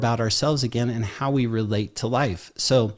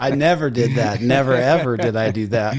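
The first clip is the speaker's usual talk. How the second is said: laughing denial; 3 dB louder than usual. Real, not acted. Joking denial amid group laughter.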